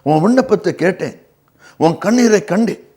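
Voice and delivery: preacher's emphatic repeat of a promise. Acted. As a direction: lift the pitch and declare it. Repeats God's answer with emphasis.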